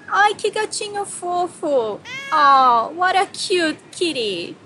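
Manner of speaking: slow, high gush over a cute kitty; gushing over a kitten. Shown as a demonstration. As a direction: coo it like you've just seen a tiny kitten. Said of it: "Fofo is used a lot by women in Brazil".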